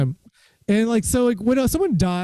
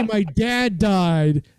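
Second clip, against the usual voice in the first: slow delivery; much slower than usual. Shown as a demonstration. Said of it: "When you say".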